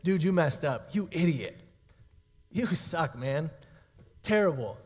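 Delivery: acted put-down, broken into curt jabs; mock condemnation. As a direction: mildly play a scornful accuser. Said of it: "Okay, condemnation is".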